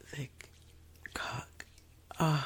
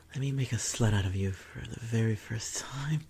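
breathy whispered taunt; seductive whisper. Acted. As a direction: whisper it close and teasing. Whispers intimate roleplay lines.

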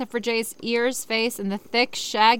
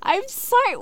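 sarcastic; 13 semitones higher, 4 dB louder than usual. Real, not acted. Sarcastic high exclamation.

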